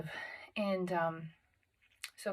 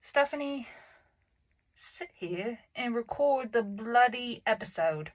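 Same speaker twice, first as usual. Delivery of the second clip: self-scolding; 4 semitones higher, 4 dB louder than usual. Real, not acted. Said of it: "what the hell are we doing?".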